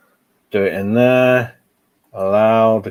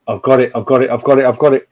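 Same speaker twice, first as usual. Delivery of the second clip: louder, relieved and pleased; 6 dB louder, faster than usual. Real, not acted. Streamer tells viewers it finally worked, pleased. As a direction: cheer as the window finally works.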